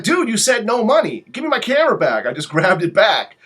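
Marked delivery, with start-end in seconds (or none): 0.0-2.3 higher and louder, annoyed; mock indignant demand; indignant retort. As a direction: demand the camera back. Retold angry reply to photographer.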